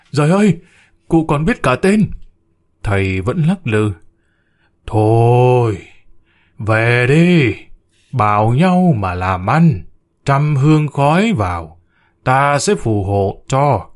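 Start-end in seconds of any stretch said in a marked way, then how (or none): 0.1-2.1 higher, amazed outcry; cry of amazement. Acted. A woman amazed the spirit knows names, higher outcry. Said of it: "Một bà rú lên". 4.9-13.9 slow, solemn spirit voice; voice from beyond. Acted. The shaman voicing the ancestor's spirit to the family, slow and solemn. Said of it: "giọng như từ cõi âm vọng về".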